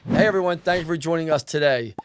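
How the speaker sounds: host's podcast intro and sponsor shout-out; smooth scripted ad read. Real, not acted. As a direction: thank the audience, then plug the sponsors. Host reads sponsor message.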